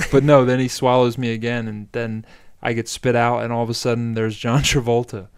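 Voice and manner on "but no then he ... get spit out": ordinary talk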